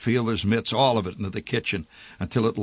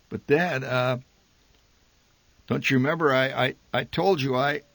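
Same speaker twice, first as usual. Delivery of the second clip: put-on miserable boy; 4 semitones higher than usual. A narrator's reading. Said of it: "I began miserably".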